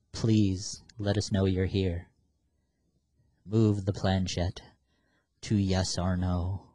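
slow, solemn appeal to a spirit; calmly, slowly ask the spirit for a sign; séance invocation. Pretend. Addresses spirit on Ouija board.

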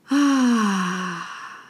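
a long, soothing ah of relief; relaxed ah. Shown as a demonstration. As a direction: sink into it with a relieved ah. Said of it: "so relaxing".

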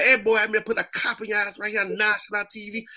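acted threat with a touch of anger; mad producer. Producer threatening a stoned actor on set, mildly angry. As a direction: imitate a producer telling off an actor. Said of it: "the producer get mad".

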